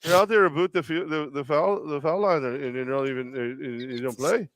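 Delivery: put-on overly polite Canadian accent doing Steve Nash. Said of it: "just one generic Canadian accent".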